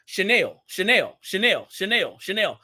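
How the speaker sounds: "Chanel" repeated as shuh-NELL in her Louisiana accent; accented pronunciation. Shown as a demonstration. Showing viewers how her Louisiana accent says shuh-NELL. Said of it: "if you listen to my accent".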